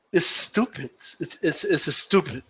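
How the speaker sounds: half-hearted attempt at a Puerto Rican accent. Imitating a boxer for the stream, failed Puerto Rican accent. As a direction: try a Puerto Rican accent and not quite get it. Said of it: "I can't do the Puerto Rican accent".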